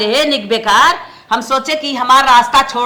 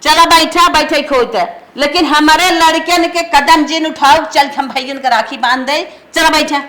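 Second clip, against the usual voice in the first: cross, dismissive orders; stern refusal with a touch of anger; angry scolding. Acted. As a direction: shut down the pleading curtly. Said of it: "माई काहे हमसे तो इतना गुस्सा करत हो".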